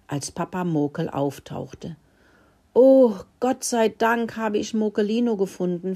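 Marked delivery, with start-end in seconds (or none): 2.7-5.9 squeaking. Acted. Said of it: "fiebte er".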